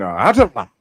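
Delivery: put-on lightly done Elizabethan English accent. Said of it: "that English Elizabethan accent".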